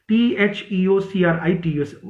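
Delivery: letters of T H E O C R I T U S read one by one; spelling aloud. Shown as a demonstration. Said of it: "थियोक्राइटस लिख लीजिए".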